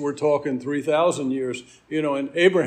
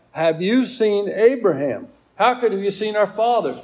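higher, emphatic disbelieving quote; pitched-up challenge, leaning on each question; incredulous questioning; 5 semitones higher than usual. Acted. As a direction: question him in open disbelief. Acted disbelieving question of the crowd.

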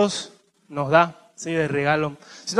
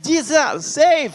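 Chicano gang voice; 7 semitones higher, much slower than usual. Retold or imitated. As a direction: call out like a Vatos Locos gangster, in English. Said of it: "como eso, Vatos Locos". (voz de cholo burlón, en inglés)

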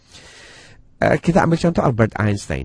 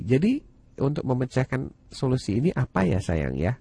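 put-on reading to a toddler. Parent coaxing child to find solution.

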